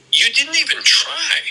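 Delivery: high, scolding reproach, a little slow; retold father's high, slow rebuke; angry dad. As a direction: imitate dad scolding him for not trying.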